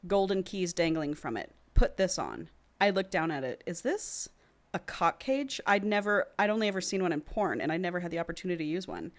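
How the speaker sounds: measured audiobook-style reading; story narration. A narrator's reading. Co-host reads a romance novel to the other, measured narration. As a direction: read the passage aloud evenly.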